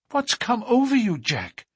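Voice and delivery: put-on young woman crying out in alarm; Etty crying out. A narrator's reading. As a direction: cry out his name in alarm. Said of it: "she cried".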